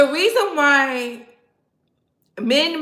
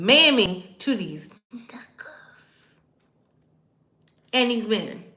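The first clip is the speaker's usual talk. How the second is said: whisper. Real, not acted. Unvoiced whisper aside.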